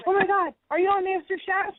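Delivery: high-pitched imitation of an amazed fan; excited fan. Woman stops traffic on spotting a TV contestant, excited. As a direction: retell it as a starstruck passerby's gushing question.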